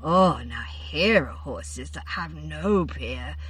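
drip honey on every word; honey-coated. A narrator's reading. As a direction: Findevar gazing dreamily at the third chariot. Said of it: "her voice grew honey-coated".

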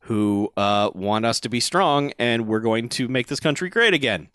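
low-pitched, measured mock political speech; mock speechifying. Villain lectures the weak president, mock speechifying. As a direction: lightly play a politician making a speech. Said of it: "starts speechifying at the president".

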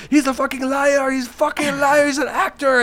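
high-pitched mock outrage; high, insistent imitated protest; Sammy accusing. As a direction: imitate an owner insisting the other man lies. Retelling Sammy's outraged accusation to police.

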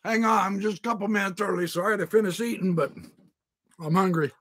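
talking through a mouthful; words around a bite of food; mouth full. Real, not acted. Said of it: "I'm talking with my mouth full".

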